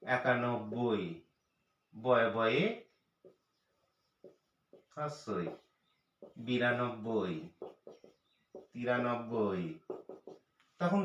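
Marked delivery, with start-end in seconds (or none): 0.0-9.6 একানব্বই said very slowly with the নব্বই drawn out; teacher says একানব্বই slowly so children hear the বই ending; slow demo. Shown as a demonstration. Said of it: "দেখুন".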